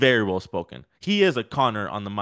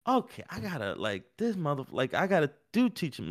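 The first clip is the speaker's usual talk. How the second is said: muttering to himself; 3 semitones higher, 6 dB quieter than usual. Retold or imitated. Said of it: "it's starting to get at him".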